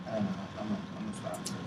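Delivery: trailing off quietly as tears come; about to cry. Real, not acted. Overwhelmed friend stops talking, on the verge of tears. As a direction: voice fading away, holding back tears. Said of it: "about to cry".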